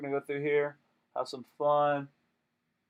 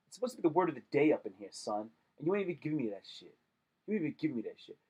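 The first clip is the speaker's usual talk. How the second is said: fast mock scolding; 4 dB quieter, much faster than usual. Scolding the website.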